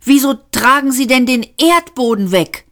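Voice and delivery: high, loud bewilderment; startled, incredulous outburst; aghast question. A narrator's reading. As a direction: blurt it in alarm. Aghast at ground flying away.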